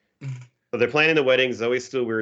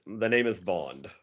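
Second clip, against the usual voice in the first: bad James Bond impression. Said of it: "he does this James Bond impression, and again, it's a terrible impression".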